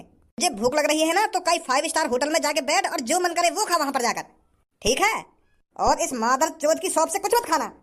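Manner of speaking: ordinary talk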